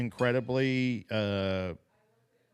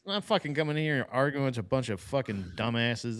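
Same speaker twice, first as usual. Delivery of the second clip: mock congressman rant. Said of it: "He's just like".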